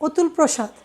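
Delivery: অতুল said "otul", with a closed o; first vowel as o. Shown as a demonstration. Teacher giving a name as example, অতুল with initial o. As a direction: start অতুল on o, not aw. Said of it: "ওকার রূপে উচ্চারিত হয়".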